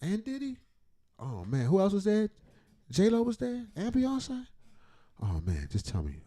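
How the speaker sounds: hushed mock gossip reactions; absorbed story listener. Imagined listener hearing celebrity gossip, quietly hooked. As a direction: softly play someone hooked on the story. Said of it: "This how somebody telling you this story, you just".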